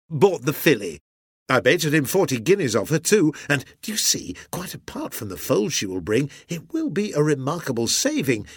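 confess, then warm up into eager bragging; hearty sea captain, eager. A narrator's reading. Husband telling wife he bought the filly, eager.

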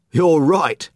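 cheerful high exclamation; exclaiming. Acted. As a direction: blurt it out as it dawns on him. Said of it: "he exclaimed".

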